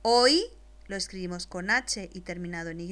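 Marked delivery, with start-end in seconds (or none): 0.0-0.4 slow dictation. Shown as a demonstration. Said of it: "después te la dicto".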